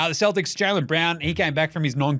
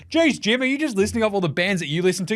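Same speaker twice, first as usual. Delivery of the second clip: imagined listener; 4 semitones higher, faster than usual. Acted. Imagined listener interrupts him.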